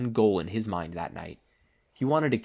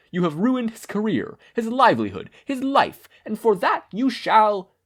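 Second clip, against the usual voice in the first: higher, louder, building declaration; vengeful young hero; 8 semitones higher, 5 dB louder than usual. Acted. Ida naming himself to the hero killer, rising and furious. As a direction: swear revenge with mounting fury.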